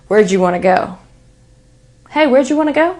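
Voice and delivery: "Where'd you wanna go" fully blended, casual; relaxed, fast "wherjou wanna go"; casual reduced. Shown as a demonstration. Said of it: "I'm going to say this sentence".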